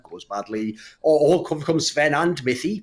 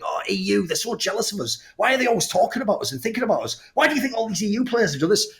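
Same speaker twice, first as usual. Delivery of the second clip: higher, faster whiny fan voice; mock NA fan; 5 semitones higher than usual. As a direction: sneer like a jealous fan. Mocking NA fans' voice.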